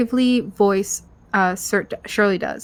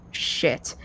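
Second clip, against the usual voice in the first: silently mouthed curse; 7 semitones lower, 7 dB quieter than usual. Acted. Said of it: "mouth the word".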